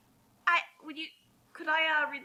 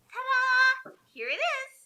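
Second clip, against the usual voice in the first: much higher, showy little reveal; mock ta-da; 12 semitones higher, 4 dB louder, slower than usual. The author unveiling her fic, mock excited. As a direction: present it like a cheesy magic trick.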